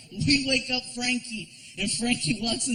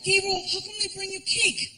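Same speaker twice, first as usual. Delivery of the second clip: put-on much higher, sleepy child's voice; little kid voice; 9 semitones higher, 3 dB quieter than usual. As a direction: play a small boy just woken up.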